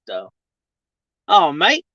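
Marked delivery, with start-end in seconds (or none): 1.3-1.9 short Australian lilt, rising at the end; playful put-on Australian accent; imitated Aussie accent. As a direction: mimic an Aussie saying it. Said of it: "I like the way that you talk".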